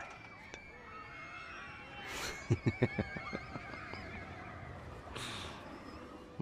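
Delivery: airy chuckle fading into a long breath; chuckle, then breathe out; breathy laugh. Acted. Flirting over a cheesy compliment, breathy laugh.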